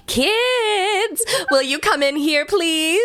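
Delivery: put-on very high, laughing call to the kids; shrill grandma call. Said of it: "I don't think she actually sang".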